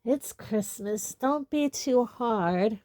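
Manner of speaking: slow, tipsy and hiccuping. Acted. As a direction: speak slowly through hiccups. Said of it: "hiccuping again".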